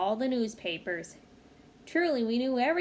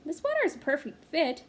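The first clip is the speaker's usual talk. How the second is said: mother insisting; 4 semitones higher than usual. Acted. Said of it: "Why not".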